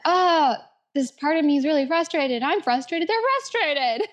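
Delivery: put-on rising into a high, whiny teenage complaint; mock frustrated teen. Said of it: "We're like".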